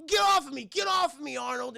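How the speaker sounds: high, loud yell to be let go; retold protest. John yells at Arnold to let go of him, high retold shout.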